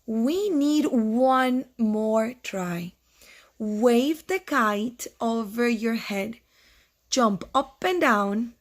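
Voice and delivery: slow, deliberate storybook Frog; measured, patient coaching; Frog encouraging Toad. Acted. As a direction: give each instruction slowly and clearly. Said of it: "said Frog".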